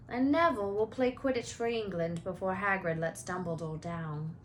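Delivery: lightly voiced easygoing schoolboy; a hint of relaxed teenage boy; Ron voice.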